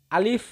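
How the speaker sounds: আলিফ from the empty space of the mouth; letter-drill আলিফ with rising tune; demonstrated letter sound. Shown as a demonstration. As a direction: model আলিফ as a lone letter, ending on a rise. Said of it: "মুখের খালি জায়গা হইতে".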